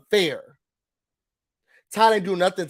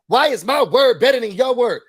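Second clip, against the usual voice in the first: retold yell; 3 semitones higher, 5 dB louder than usual. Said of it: "Started yelling".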